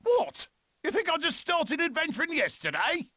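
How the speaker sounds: a squeaky high "what?"; mock offended. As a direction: act shocked they'd doubt you. Mock indignation.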